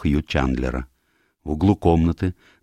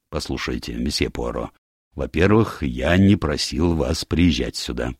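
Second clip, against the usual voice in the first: displeased admiral; 2 semitones lower than usual. Acted.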